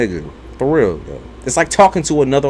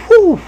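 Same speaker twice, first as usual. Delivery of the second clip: a sharp high whew; 6 dB louder than usual. Retold or imitated. Answering her mom with a high whew. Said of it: "I was like".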